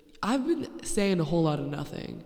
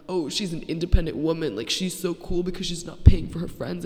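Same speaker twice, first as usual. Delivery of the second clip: louder mock admiration; mocking imitation; 5 dB louder than usual. Podcaster mimicking a backhanded compliment, louder mockery.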